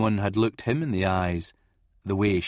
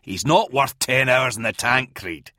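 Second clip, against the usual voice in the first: growled; 2 semitones higher, 3 dB louder than usual. Acted. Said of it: "Ron growled".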